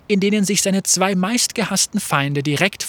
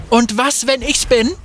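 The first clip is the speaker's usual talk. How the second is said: higher, louder challenge; defiant call; 7 semitones higher, 4 dB louder than usual. Acted. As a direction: throw it back in his face. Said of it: "rief Fate".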